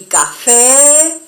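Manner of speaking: café with a long, stressed open E. Shown as a demonstration. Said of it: "estoy exagerando".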